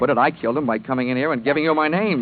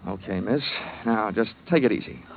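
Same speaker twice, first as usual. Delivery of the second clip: soft, low comforting; calm her down gently; reassuring; 3 semitones lower, 6 dB quieter than usual. Acted. Detective soothing the shaken secretary, soft and gentle.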